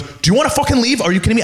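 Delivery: high, pushy bouncer mimicry. Imitating the bouncer shoving him at the bar, high and pushy. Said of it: "And he goes".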